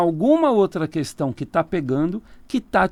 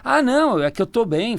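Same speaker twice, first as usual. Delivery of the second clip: higher-pitched mock excuse; lightly acted, raised-pitch denial; client making excuses; 6 semitones higher than usual. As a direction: imitate someone brushing off the doctor. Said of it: "A pessoa vira e fala".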